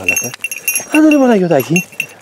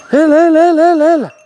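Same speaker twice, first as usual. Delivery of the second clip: higher, repeated come-on; eager urging; 9 semitones higher than usual. Real, not acted. Owner urging the rooster, higher eager come-on. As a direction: chant him on eagerly.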